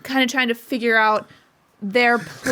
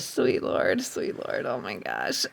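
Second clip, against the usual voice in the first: whispering; 8 dB quieter, much slower than usual. Real, not acted. Groaning reaction to a pun.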